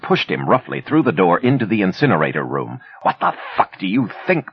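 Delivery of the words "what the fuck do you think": cried out. A narrator's reading. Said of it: "Ben cried".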